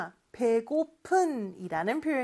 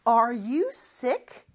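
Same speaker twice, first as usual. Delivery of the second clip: slow model reading; much slower than usual. Shown as a demonstration. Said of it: "이렇게 물어볼 수 있죠".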